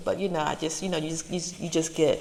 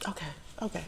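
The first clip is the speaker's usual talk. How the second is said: fighting back tears; 9 dB quieter, much faster than usual. Real, not acted. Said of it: "more I wanna cry".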